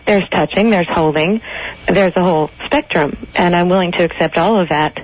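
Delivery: detached, robot-like delivery. Real, not acted. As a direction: talk like an unfeeling robot. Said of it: "you're talking like a robot".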